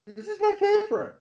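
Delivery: squealing high with fan excitement; screaming crying fan. Real, not acted. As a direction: gush about it like an overjoyed fan. Gushing fan over favorite movie.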